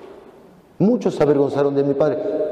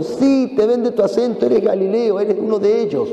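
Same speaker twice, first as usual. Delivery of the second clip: mocking accuser; 5 semitones higher than usual. Accuser taunting Peter about his accent, high.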